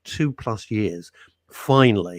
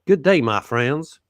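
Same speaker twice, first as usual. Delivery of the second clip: slow, loud, hammed-up hearty greeting; mock a grand welcome to the friends; a hint of a showman host; put-on greeting voice; 3 semitones higher, 6 dB louder, slower than usual. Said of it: "He doesn't talk like that at all".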